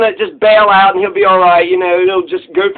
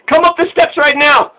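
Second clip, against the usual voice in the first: mock police order; 6 semitones higher than usual. Cop ordering someone up the steps, mock command. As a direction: act out a cop's order.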